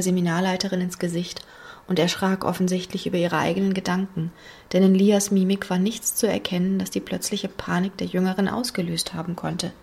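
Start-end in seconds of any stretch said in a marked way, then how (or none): none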